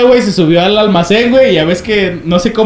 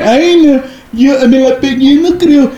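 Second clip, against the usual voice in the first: high, whiny excuses from a scaredy-cat; mocking a friend too scared to come out; mock scared whine; 6 semitones higher, slower than usual. (burla aguda y quejumbrosa de un miedoso)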